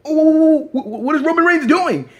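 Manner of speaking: high, stammering shock; loud gasped oh, then stumble over the question; Byron Saxton. Acted. Commentator baffled by the sudden attack, stunned. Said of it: "Byron Saxton is like".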